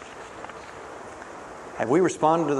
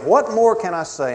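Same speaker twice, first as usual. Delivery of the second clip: higher, louder anguished plea; urgent pleading cry; God pleading; 7 semitones higher, 4 dB louder than usual. Acted. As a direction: throw the question out as a pleading God. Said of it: "God is pleading and imploring".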